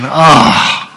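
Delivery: mock exasperated teacher. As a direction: let the exasperation spike on really. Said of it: "an expression from exasperation".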